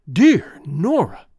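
loud, slow, triumphant; exultant. A narrator's reading. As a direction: savour the name with joy. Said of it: "he said exultantly".

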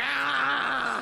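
long mock-agonized "ah"; chugging yell. Comedian gulping as audience goes nuts, yelling. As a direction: hold an open-throated acted yell. Imitates gulping amid crowd frenzy.

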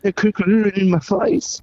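very high, slow squealing voice; squeaky high voice. Pretend. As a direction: squeal it like a tiny cartoon.

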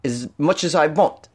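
lightly put-on British accent. Podcaster defiantly talking like a Brit at a listener, mock British accent. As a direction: slip into a mock Brit accent, drawing out the last words. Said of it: "talking like a Brit".

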